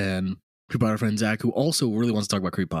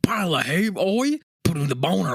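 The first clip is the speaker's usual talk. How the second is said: hammed-up British accent; 6 semitones higher than usual. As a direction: overdo a cheeky British accent as a joke. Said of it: "make it a little bit more British".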